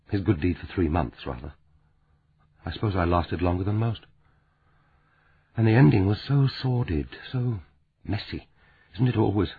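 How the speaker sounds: lightly voiced sad Frances, hushed and bitter; grieving woman. Frances confides her heartbreak.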